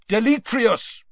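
high, loud spell cry; Diggory shouts to banish the smoky skull; shouted spell. A narrator's reading. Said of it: "Mister Diggory shouted".

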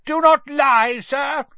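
loud, high shout. A narrator's reading. Crouch accusing Ron of lying, loud shout. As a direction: shout him down. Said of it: "shouted Mister Crouch".

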